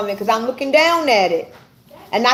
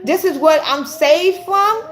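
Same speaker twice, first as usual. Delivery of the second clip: tearful disbelief; 6 semitones higher than usual. Retold or imitated. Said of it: "I started crying 'cause I'm like".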